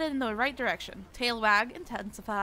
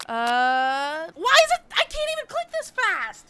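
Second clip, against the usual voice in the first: much higher, frantic whine; frantic complaint; 5 semitones higher, 7 dB louder, slower than usual. Real, not acted. Player unable to click fast enough, frantic. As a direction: complain in a panic. Timer too fast panic.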